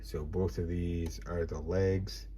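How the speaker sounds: slow whispered aside; whispering. Real, not acted. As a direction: whisper it slowly. Whispers while handling toy.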